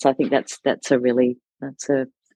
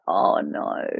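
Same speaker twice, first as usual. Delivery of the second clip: sympathetic dismay; 7 semitones lower, 4 dB quieter than usual. Real, not acted. Listener hearing the child felt screamed at, sympathetic dismay.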